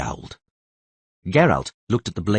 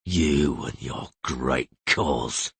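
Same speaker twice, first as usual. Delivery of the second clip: bitter scorn; 8 semitones lower, 5 dB quieter, much slower than usual. Acted. Geralt bitterly rebukes Philippa.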